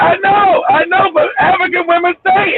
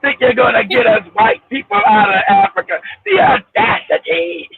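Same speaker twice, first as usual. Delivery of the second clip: mock colonizer; 4 semitones lower than usual. Mocking a white colonizer.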